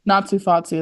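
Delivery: Natsu Fatsu in a Boston accent. Shown as a demonstration. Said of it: "it's like a Boston accent".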